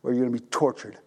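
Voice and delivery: low, whispered threat of torture; menacing whisper. Retold or imitated. King whispering the servant's sentence, low and menacing. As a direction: hiss the sentence softly and coldly.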